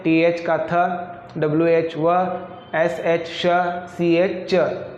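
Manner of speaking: TH as थ, WH as व, SH as श, CH as च; letter names, then the single sound of थ, व, श, च; digraph sound demo. Shown as a demonstration. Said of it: "एक उच्चारण निकालते हैं".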